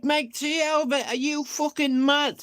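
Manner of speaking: high, stunned repeat; high disbelief. Retold or imitated. Repeating the mate's words back to him, high with disbelief. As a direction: throw the words back in shock.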